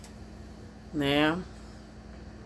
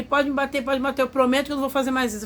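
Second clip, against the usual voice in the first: pleading abuser; 6 semitones higher, faster than usual. Retold or imitated. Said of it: "Aí ele".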